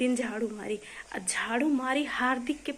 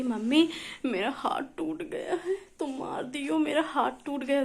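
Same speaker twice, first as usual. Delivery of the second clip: mother mimics her daughter's crying complaint, mock whimper; imitating crying child; 3 semitones higher than usual. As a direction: ham up a child's tearful complaint. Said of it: "ये रोते रोते आई".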